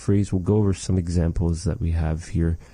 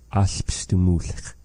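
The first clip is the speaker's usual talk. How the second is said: Alps du Mulch split into parts, slowly; teacher repeating the word in parts; slowed demo; slower than usual. Shown as a demonstration. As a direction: break Alps du Mulch into its pieces. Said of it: "This here example".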